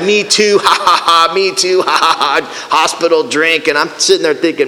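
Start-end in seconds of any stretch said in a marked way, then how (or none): 0.0-3.7 mock ha-has between words; put-on chortling agreement; imitated group laughter. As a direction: act out pals laughing along together. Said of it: "And they're just like".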